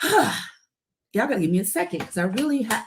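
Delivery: fighting to compose yourself; real, getting emotional. Real, not acted. Speaker asks live viewers for a second, emotional. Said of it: "I was gonna get this emotional".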